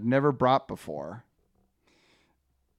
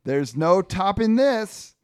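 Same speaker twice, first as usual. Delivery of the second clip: higher, slow punchline; lightly voiced pepperoni Frank; 7 semitones higher, 4 dB louder, slower than usual. Frank marvels to his fellow pepperoni, lightly hammed-up. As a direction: lean slowly on the pun. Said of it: "Frank goes".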